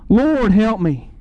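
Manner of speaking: slow, drawn-out mild plea; retold pleading. Mother falls down before Jesus, retold slow plea. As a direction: act out begging for help, slowly. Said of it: "you plead with Jesus".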